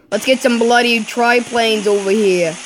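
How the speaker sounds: playful attempt at an Australian accent. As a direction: put on a light, mock Australian twang. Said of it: "trying to talk like an Australian".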